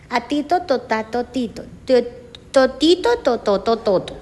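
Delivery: "tito", "totato", "totito" all built on T sounds; child saying everything with T. Shown as a demonstration. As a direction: babble every word on a T like a small child. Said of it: "Todo lo pronuncia por T".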